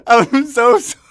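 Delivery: squealing through laughter, high and loud; can't stop laughing while apologizing; laughing apology. Real, not acted. Laughing hard mid-story.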